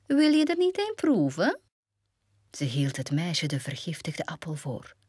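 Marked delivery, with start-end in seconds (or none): 0.1-1.6 fluisterend begin, dan hoog uitgesproken; heksenstem. Acted. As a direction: sluwe oude heks die verleidt. Heks biedt de appel aan. (sluwe heksenstem, fluisterend en dan hoog)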